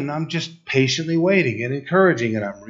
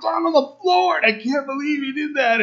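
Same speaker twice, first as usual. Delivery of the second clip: high, stunned cry of disbelief; disbelieving; 13 semitones higher than usual. Retold or imitated. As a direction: sound floored by what she did. Dad's disbelief at the daughter.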